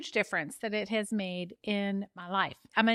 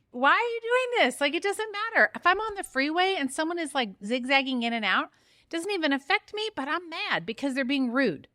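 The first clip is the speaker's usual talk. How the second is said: high, heated rant about rude drivers; fired up; 4 semitones higher than usual. Real, not acted. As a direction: let the indignation rise and burn. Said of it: "Can you hear it in my voice?".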